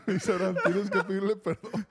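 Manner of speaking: voz aguda por la risa, más fuerte; hablando entre risas. Real, not acted. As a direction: cuenta la frase muerto de risa. Cuenta la anécdota entre carcajadas. (risa real metida en las palabras)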